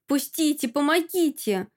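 high panicked cries; wailing for help. Acted. Masha dragged by the thugs, panicked wailing. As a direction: struggle and wail, pitch up. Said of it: "воплю, сбиваясь в руках амбала".

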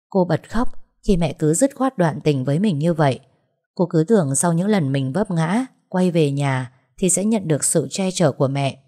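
ordinary delivery

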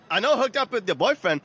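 badly faked Australian accent; attempted Australian accent. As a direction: try Australian and miss.

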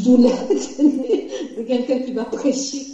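slowed by real laughter; laughing in disbelief. Real, not acted. Wife doubting her husband could preach, laughing as she speaks. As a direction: let laughter break up the words.

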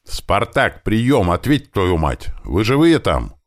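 urgent radio call. A narrator's reading. Commander begging Spartak to answer, urgent hail. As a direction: demand an answer, pitch up, getting frustrated.

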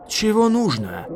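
high, loud bold challenge; defiant roar. A narrator's reading. Silk answering the besiegers with feigned boldness, roaring. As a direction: roar back with bravado. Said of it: "проревел Шёлк с куда большей дерзостью".

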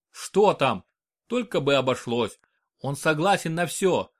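ordinary delivery, nothing marked

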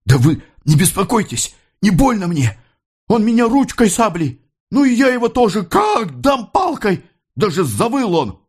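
put-on excited young lad. A narrator's reading. Beaten young worker brags to mother about the fight, high excited boy voice. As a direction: boast like a scrappy boy, shouting on the blow.

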